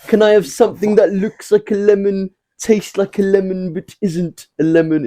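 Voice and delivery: high, excited walkie-talkie call; Jim voice. Retold or imitated. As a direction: call it through like a radio. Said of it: "You know when Jim's like".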